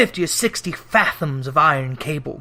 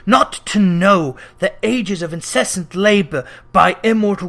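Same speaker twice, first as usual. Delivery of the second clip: wailing phantom; 2 semitones higher than usual. Acted. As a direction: wail it like a tormented spirit. Ghost voice held.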